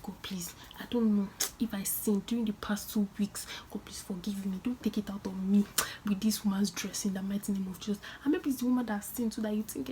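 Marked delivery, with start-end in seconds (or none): 0.0-8.0 frightened prayer. Retold or imitated. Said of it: "I was like".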